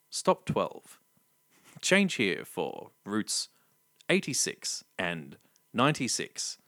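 lightly voiced slow tram stop announcement; tram announcer. Retelling the tram stop voice to friends, slow announcer read. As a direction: read the stops like a calm recorded announcer. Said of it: "Did you do the tram voice".

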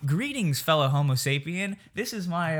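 stiffly ceremonious mock introduction; mock formal greeting. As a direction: greet them with hammed-up formality.

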